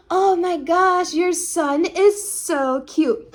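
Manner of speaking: a hint of an over-sweet old lady, slow and drawn out; gushing neighbor lady. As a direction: stretch it out like a fawning neighbor. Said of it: "this little Korean lady, she goes".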